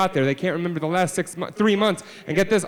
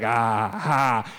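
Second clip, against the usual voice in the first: pirates' "ah, ha"; 6 semitones lower than usual. Acted. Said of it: "They're like".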